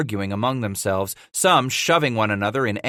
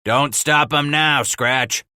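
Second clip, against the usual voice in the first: hollered; 3 semitones higher, 3 dB louder, slower than usual. Acted. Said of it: "Walker hollered".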